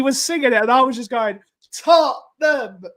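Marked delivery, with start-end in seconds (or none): 1.7-2.8 high, drawn-out mock chant; retold concert yell. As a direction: imitate yelling along at a concert, stretched out. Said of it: "were screaming it at the top of our lungs".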